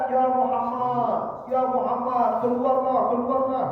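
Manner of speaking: high loud shouting from outside; calling out loudly. Retold or imitated. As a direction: yell the name like an impatient caller. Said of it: "Teriak-teriak di balik kamar tuh". (teriakan memanggil dengan keras)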